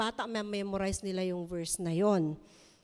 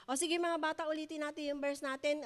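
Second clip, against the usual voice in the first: routine teacher; 5 semitones higher, 5 dB quieter, faster than usual. Retold or imitated. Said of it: "kung minsan yung mga teachers".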